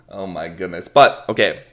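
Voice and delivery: ordinary talk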